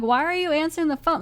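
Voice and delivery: retold exasperation at a character's choice; irritated. Viewer reacting to her answering Alan's call, irritated. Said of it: "this episode kinda irritated me".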